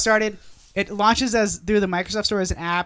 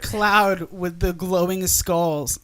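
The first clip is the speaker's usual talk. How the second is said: ominous pirate voice; much slower than usual. Retold or imitated. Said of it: "they're like, they're like".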